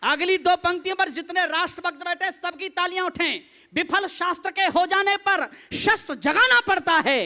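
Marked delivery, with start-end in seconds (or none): 3.7-7.2 declaimed verse with stretched words; stage poet in full flow; rousing patriotic recitation. Acted. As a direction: recite stirringly to win applause.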